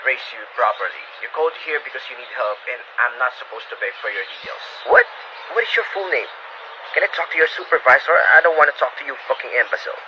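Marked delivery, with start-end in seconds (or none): 4.9-10.0 sharp, louder demand for the supervisor; irate caller. Acted. Angry caller yelling at the helpdesk agent, demanding a supervisor. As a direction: snap at the agent, fed up.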